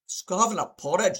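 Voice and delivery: put-on Scottish burr; brief stereotypical Scottish impression; lightly hammed-up Scottish accent. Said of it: "decided to be Scottish".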